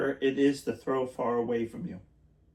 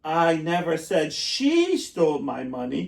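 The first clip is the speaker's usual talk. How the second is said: she lifted and leaned on, slow; slow demo, weight on she; stress on SHE; 4 dB louder, slower than usual. Shown as a demonstration. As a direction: land on the word she. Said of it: "depends where the word is stressed".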